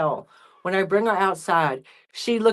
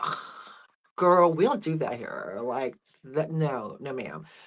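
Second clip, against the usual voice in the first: play-acted cat voice, unimpressed and disapproving; 6 semitones lower, 8 dB quieter than usual. Voicing the cat Lola scolding the new cat: voicing the cat Lola, disapproving. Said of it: "Lola looks at her like".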